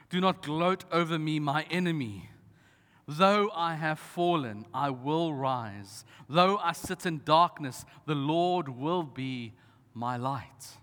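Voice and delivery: slow, earnest reading of scripture. Acted. Pastor reading Micah to the church, slow and earnest. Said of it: "Micah seven is still so true".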